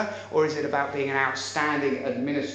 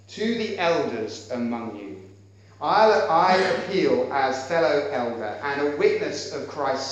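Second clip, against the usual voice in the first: scripture reading. Acted. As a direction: read it with solemn weight. Reads scripture passage aloud.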